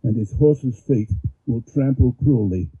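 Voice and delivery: measured, declaiming verse reading; poem reading. Acted. Reads Pushkin poem aloud.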